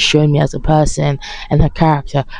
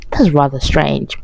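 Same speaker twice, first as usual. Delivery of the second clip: dry, prim understatement; slower than usual. Retold or imitated. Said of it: "I thought".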